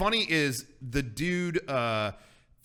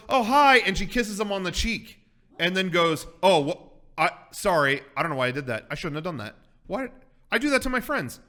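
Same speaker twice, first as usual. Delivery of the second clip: higher, louder flustered apology; flustered girl; 3 semitones higher, 6 dB louder than usual. Retold or imitated. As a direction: play the embarrassed girl tripping over her words. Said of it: "she goes".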